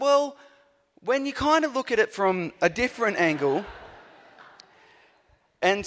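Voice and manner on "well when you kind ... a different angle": high-pitched, hedging about-face; sheepish backtracking. Retold or imitated. Preacher mocks his own U-turn on learning the author, sheepish backtracking. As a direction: pitch it up, comically changing your tune.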